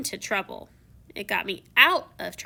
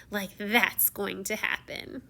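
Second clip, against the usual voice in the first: soft, slow mocking snicker; 4 dB quieter, slower than usual. Evil fairy mocking the prince, slow and soft. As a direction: sneer at his chances. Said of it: "she snickered".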